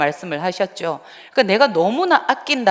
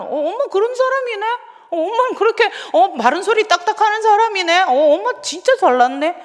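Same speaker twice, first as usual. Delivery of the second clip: much higher, cheeky mocking child voice; sarcastic child; 12 semitones higher than usual. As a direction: taunt mom like a sassy kid. Child mocking mother in story. (엄마를 비꼬는 높은 아이 말투)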